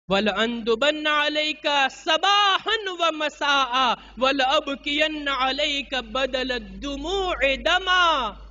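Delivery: slow, drawn-out Arabic recitation; Arabic lament recitation. Retold or imitated. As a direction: recite the mourning words with long, stretched vowels. (ધીમે, લંબાવીને અરબી મરસિયાનું પઠન)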